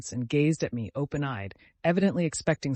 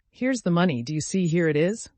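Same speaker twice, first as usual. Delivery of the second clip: loud, insistent, raised voice; shouting; 4 semitones higher, 6 dB louder than usual. A narrator's reading. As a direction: press it on him loudly. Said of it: "I shouted to him".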